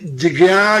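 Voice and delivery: "जिज्ञा" split into a drawn-out ji-gyaa; mispronounced ज्ञ. Shown as a demonstration. Teacher mocking a student's error, "जिज्ञा" wrongly split. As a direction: break "जिज्ञा" apart with an extra vowel before gyaa. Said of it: "और यदि तुम जि".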